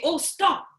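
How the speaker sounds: rude "stop". Shown as a demonstration. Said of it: "they might feel more angry when we talk like that".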